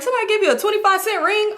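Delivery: high-pitched mock grandpa question; imitated incredulity. Acts out grandpa's teasing question.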